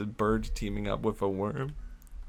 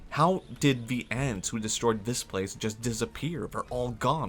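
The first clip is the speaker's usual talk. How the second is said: dramatic discovery; 3 semitones higher than usual. Retold or imitated. Worm discovers destroyed anthill in story.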